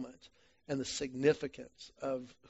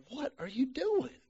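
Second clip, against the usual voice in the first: high, incredulous body voice; body's voice; 9 semitones higher than usual. Pretend. Body protesting to the runner, high incredulous voice. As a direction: play your body complaining. His body talks back mid-run.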